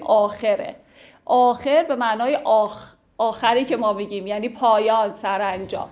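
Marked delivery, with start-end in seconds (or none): 0.0-0.8 آخره said with an e after the kh, "aakhere"; correct pronunciation. Shown as a demonstration. Teacher showing students the correct reading of the word, correct pronunciation. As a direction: pronounce آخره as aa-khe-re. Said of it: "درستش اگه بخوایم تلفظ کنیم".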